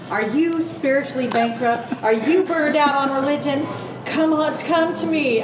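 high, loud mock sales pitch; used car commercial. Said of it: "It reads like a used car commercial".

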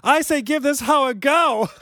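laughing through the line. Real, not acted. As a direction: crack up while reading. Reading the email's punchline.

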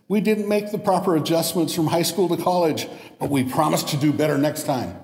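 a lightly whiny apology; pleading students. Retold or imitated. Students apologizing to professor, a touch pleading. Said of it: "they said".

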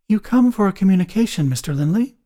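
brisk, matter-of-fact medium; all business, no mystery; dry and businesslike. A narrator's reading. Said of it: "said the medium in a dry, businesslike tone of voice".

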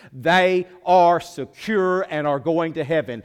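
Everybody else drawn out slow and shouted high; preaching shout. Real, not acted. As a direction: roar out the warning to the congregation. Preacher's climax, warning of hell.

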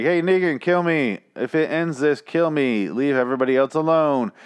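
a hint of a kid calling out his offer; Carl. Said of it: "Carl walks out on the top of the ledge, and he's like".

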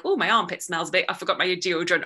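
loud candid aside from stage; calling out. Acted. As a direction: own up to the whole room. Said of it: "I'll call out".

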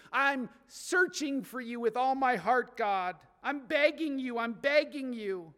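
earnest, pleading prayer; emotional begging. Acted. Someone praying to God with all their heart, begging. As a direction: beg with all your heart. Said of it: "it means an emotional request".

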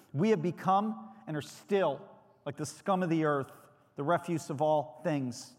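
a preacher lending Paul's frustration a mild edge; mild rant read aloud. Retold or imitated. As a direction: read Paul's rebuke with controlled heat. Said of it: "Paul is ranting here".

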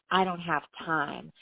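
slow, mimicking tone; mocking her excuse. Brother mocking her excuse back at her, slowly. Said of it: "you wouldn't say".

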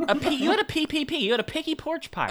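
laughing through a high, fast joke; laughing mock outrage. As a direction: giggle the words out quickly. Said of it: "You're like".

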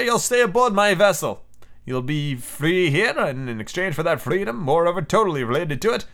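a composed sea captain laying down terms; a lightly voiced stern commander. The captain sets his terms for the prisoner, lightly voiced.

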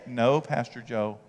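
a hint of an offended listener objecting to the pastor; protesting churchgoer. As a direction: play the offended believer quietly. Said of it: "You say".

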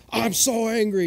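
loud, hammed-up outrage; mock angry. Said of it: "everyone thinks he's doing some grand act".

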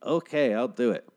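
mock pop-star voice, lightly put on; a singer. Star agreeing to join the show, lightly mimicked voice. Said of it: "that's her voice for some reason".

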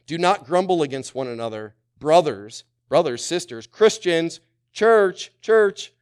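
shouted verse building to a high, loud cry of church; preaching shout. Acted. Preacher crying the verse out to his church, rising shout.

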